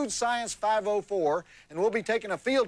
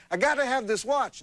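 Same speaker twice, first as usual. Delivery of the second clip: higher-pitched, eager acted insistence; insistent buyer; 6 semitones higher than usual. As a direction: play a stranger who badly wants it. Stranger in joke insists on buying.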